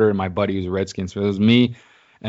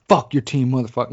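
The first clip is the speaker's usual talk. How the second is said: higher-pitched mock in-your-face insult; retold aggressive taunt; 5 semitones higher, faster than usual. Drunk passer-by taunting a Lions fan, mock aggressive jeer. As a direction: imitate a drunk fan getting in someone's face.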